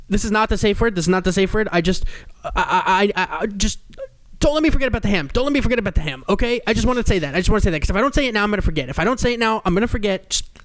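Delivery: high, rushed, nervous interruption; a man fretting about the ham mid-scene; flustered man. Retold or imitated. Man voiced mid kinky scene.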